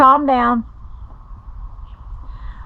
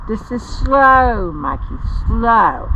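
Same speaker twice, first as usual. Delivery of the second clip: 1 showing slow; slower than usual. Shown as a demonstration. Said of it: "It's called slow".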